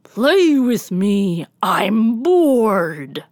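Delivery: honey bear roaring demand; sticky roar. Acted. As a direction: roar it like a bored giant. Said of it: "roared in a sticky voice".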